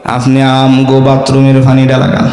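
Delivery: clever disciple. Retold or imitated. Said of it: "মুরিদও তো চালাক কম না".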